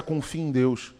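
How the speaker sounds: soft, steady answer of faith; quiet, reassuring counsel; calm reassurance. Acted. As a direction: answer gently, like a pastor comforting. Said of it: "pastor's calm answer, repeated".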